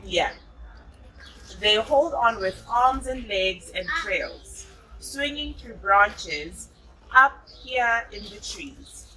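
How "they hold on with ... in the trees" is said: slow storybook read-aloud; gentle storybook narration for a child; reading to children. A narrator's reading. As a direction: read it like a bedtime picture book. Reading picture book to child.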